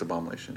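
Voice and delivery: "abomination" said as "abomalation"; doubtful, garbled "abomination" ending in "-alation"; mispronounced. Real, not acted. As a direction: put an L in "abomination", a-bom-a-LAY-shun. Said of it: "That's not a word".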